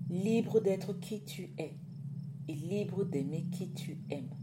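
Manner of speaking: drawn-out words of release; measured, weighty pronouncement; slow, solemn message. A narrator's reading. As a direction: deliver it slowly, as a blessing. Mother's liberating message, slow emphatic reading.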